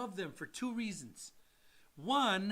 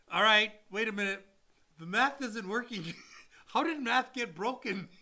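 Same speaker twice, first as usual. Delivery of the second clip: rising disbelief; 3 semitones higher, 7 dB louder than usual. Retold or imitated. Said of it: "and you're like".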